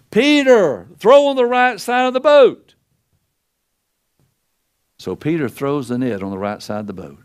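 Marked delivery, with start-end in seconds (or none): 0.1-2.7 high, loud call across the water; calling out from the shore. Retold or imitated. Jesus on the shore calls to Peter in the boat, high and loud. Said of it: "he shouted".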